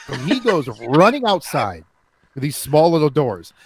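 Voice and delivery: ordinary delivery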